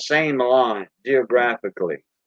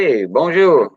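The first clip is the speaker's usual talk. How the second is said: Cajun greeting; 4 dB louder than usual. Shown as a demonstration. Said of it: "We say".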